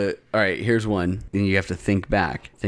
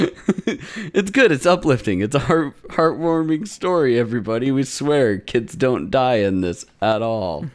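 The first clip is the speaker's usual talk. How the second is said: sarcastic; 4 semitones higher than usual. Acted. Sarcastic praise of dark anime.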